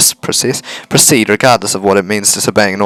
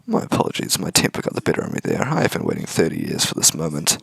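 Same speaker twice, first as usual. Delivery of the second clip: hushed villain; 4 dB quieter than usual. Acted. Villain feigns calm.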